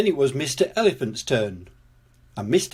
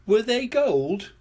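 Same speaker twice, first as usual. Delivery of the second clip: put-on higher, slow question as a young character; child's question; 9 semitones higher, slower than usual. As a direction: ask it slowly, pitched up. Pepper questions the bootless report.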